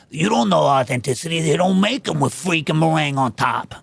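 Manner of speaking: lightly voiced indignant food purist; mocking authenticity purist. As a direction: scoff at it like a self-righteous food snob. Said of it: "And so people are like".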